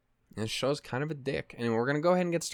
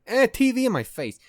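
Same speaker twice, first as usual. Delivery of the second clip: mock whiny voice; 11 semitones higher, 6 dB louder than usual. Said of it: "so it's not just fucking".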